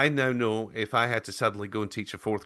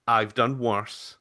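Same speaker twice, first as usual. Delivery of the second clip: slow, measured reassurance; retold reassurance; 3 dB louder, much slower than usual. Principal to panicked teacher, slow retold reassurance. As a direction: lightly imitate someone calming a worrier, slowly.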